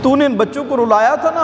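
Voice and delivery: scolding himself aloud; anguished cry at himself. Acted. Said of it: "self-reproach repeated louder".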